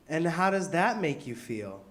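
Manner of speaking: slow, lightly voiced therapist. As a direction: ask it slowly like a therapist. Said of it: "impression of a therapist".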